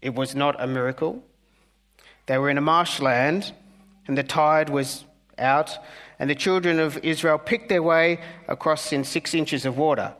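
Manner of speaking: mildly condescending minister; a touch of smug lecturing; lightly voiced liberal minister, faintly patronising. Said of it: "says condescendingly into the microphone".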